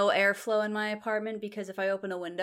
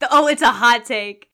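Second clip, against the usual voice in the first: laughing; 3 semitones higher, 11 dB louder than usual. Real, not acted. Laughing over hot take.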